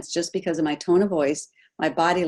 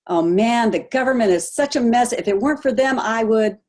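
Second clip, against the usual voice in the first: mock griping about the government; 5 semitones higher than usual. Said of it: "Those are all blaming".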